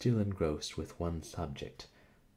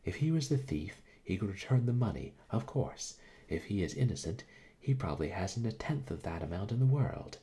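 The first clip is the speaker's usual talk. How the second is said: heated protest; 4 semitones higher, 4 dB louder than usual. Acted.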